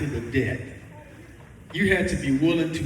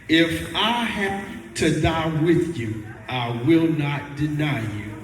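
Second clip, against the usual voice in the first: forceful; 3 semitones lower, slower than usual. Retold or imitated. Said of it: "Peter got more forceful with his words".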